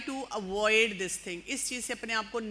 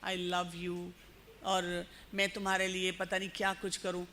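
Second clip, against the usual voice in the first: soft, slow, honeyed flattery, much softer; soft slow lover's sweet talk; 5 semitones lower, 6 dB quieter than usual. Retold or imitated. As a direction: coo it like a smooth-talking admirer. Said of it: "اتنی پیار سے کہتا ہے".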